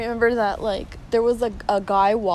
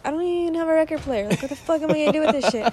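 higher and fast exasperated rant; 6 semitones higher, faster than usual. Retold or imitated. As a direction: complain in disbelief. Complaining about an unwanted record.

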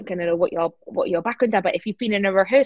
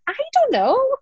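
very high, comic plea of ignorance; hammed-up high-pitched cluelessness; mock bafflement. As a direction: squeal it helplessly for laughs. Acting own baffled reply, then laughs.

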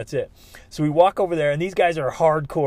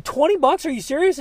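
disbelief; 12 semitones higher, 4 dB louder than usual. Retold or imitated. Shocked at the cheap price.

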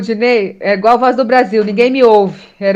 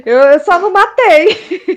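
laughing repeat; 8 semitones higher, slower than usual. Acted. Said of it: "Vamos resumir?".

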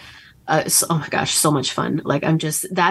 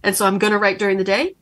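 higher, laughing, giddy self-mockery; mock overachiever; 4 semitones higher than usual. Author mocking her workaholic self, giddy and higher. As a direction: lampoon your own workaholic plans. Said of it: "it's like".

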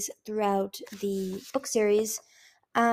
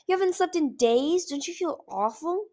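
much higher incredulous question; horrified; 8 semitones higher than usual. Acted. Kinkajou horrified at Icicle's sleeplessness, horrified. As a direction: gasp at the news.

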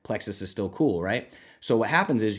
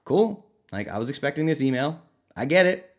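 unimpressed inner voice; 4 semitones higher than usual. Retold or imitated. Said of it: "I'm like".

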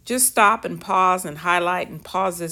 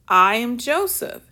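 higher and louder declaration; emphatic reveal; 6 semitones higher, 5 dB louder than usual. Acted. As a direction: announce yourself to the brothers who sold you. Joseph reveals himself to brothers.

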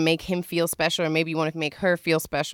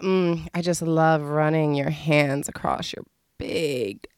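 slow, mock-seductive murmur; sensual admiration; 4 dB quieter, slower than usual. Shown as a demonstration. Showing how to praise a lover's body, slow and sensual. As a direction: draw out the compliment, lingering. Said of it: "tell 'em how sexy their body is".

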